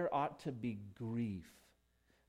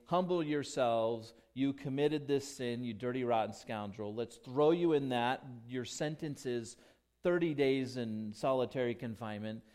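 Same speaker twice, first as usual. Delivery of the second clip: a hint of a stern, condemning judge, louder; mock harsh judge; 5 dB louder than usual. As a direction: lightly play a harsh sentencing judge. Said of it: "He doesn't say".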